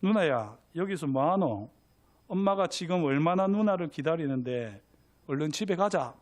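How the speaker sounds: little brother in light Gyeongsang dialect. Acted. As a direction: urge her along in Gyeongsang dialect. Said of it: "경상도 사투리로 할게요".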